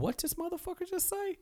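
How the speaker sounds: can't believe what he just heard; indignant disbelief. Retold or imitated. Canyon hearing the insult.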